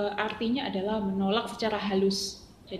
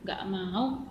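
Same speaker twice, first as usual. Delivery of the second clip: blunt refusal; 6 dB quieter, slower than usual. Shown as a demonstration. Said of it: "Nggak, nggak, nggak kayak gitu ya".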